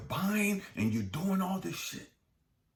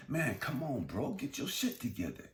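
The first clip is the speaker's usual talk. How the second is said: fed-up scolding; 2 semitones higher than usual. Acted. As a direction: act out a partner at the end of their patience. Acts out fed-up partner scolding.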